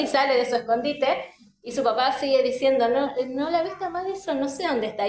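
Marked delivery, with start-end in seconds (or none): 2.9-5.1 playful dad pretending not to see; raised pitch, mock searching for a child; feigned puzzlement. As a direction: play dumb in a hide-and-seek game. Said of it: "Pero se hace el que no la ve".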